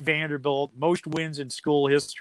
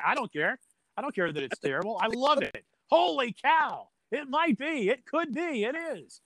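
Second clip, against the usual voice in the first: high, excited gushing; gleeful; 9 semitones higher than usual. Retold or imitated. Defending his love of Holy cow, high gleeful voice. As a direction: gush over the catchphrase. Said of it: "It's like".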